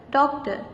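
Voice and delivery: "doctor" with DOC stressed; stress on first syllable. Shown as a demonstration. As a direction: put the weight on DOC in "doctor". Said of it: "the first label is stressed one".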